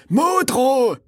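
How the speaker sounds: high, drawn-out mock politician's voice; Modrow. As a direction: stretch it out in a high caricature voice. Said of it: "Der hat doch, der hat doch immer so gesprochen".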